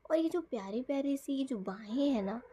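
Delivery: breathy whisper of affection; whispered fondness. Retold or imitated. Wife whispering to her husband about his arms, tender whisper. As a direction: whisper it lovingly as if he's right there.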